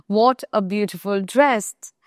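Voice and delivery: very slow, savoring what; slow exclamation demo. Shown as a demonstration. Teacher showing an exclamation to students, very slow. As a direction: draw out the exclamation. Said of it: "যেমন আমরা বলি না".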